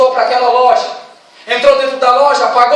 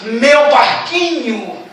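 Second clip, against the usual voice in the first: stunned recognition; much slower than usual. Acted. Youth recognising boat.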